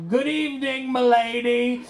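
grand mock-medieval address to milady; hammed-up courtly knight greeting his lady; overdone knightly courtier. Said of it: "I just really overdo it".

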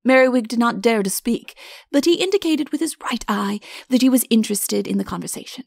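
ordinary delivery, nothing marked

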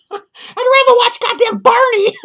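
cracking up while he rants; laughing. Real, not acted. Reviewer to his viewers, laughing out loud.

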